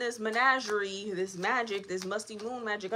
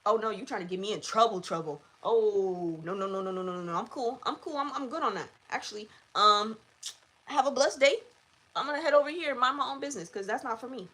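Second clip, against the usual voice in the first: panicked demon. Retold or imitated. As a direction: play a spooked demon refusing the job. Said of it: "they was like".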